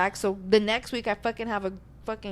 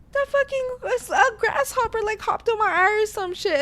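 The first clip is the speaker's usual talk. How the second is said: retold panic; 11 semitones higher than usual. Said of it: "I'm like".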